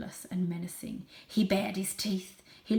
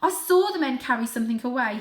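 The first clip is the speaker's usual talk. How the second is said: kitten voice; 5 semitones higher, 9 dB louder than usual. Acted. Kitten Varjak speaks.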